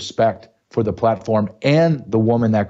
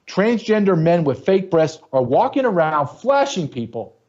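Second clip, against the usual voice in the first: angry rant; 6 semitones higher than usual. Real, not acted. Heated rant about Easter event.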